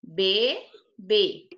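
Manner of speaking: bebê split as be... BÊ; two separate beats in bebê, stress on the final bê; stressed last syllable. Shown as a demonstration. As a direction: show the class be-BÊ. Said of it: "é a sílaba mais forte".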